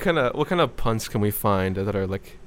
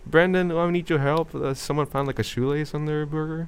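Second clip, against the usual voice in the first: calling the manager; 5 semitones higher than usual. Acted. Cashier calling manager Brandon over the shoelace, higher and pleading. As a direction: call for the manager, a bit flustered.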